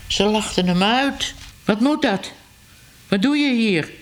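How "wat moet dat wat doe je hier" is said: put-on higher, sharp angry call at the laughing girl; outraged man yelling across his garden; hot-tempered shout. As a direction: snap it out, furious at the intruder. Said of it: "riep meneer Ellemeet driftig".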